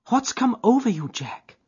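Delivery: crying out. A narrator's reading. Etty confronting startled Jack, high alarmed cry. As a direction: call out to him in alarm. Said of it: "she cried".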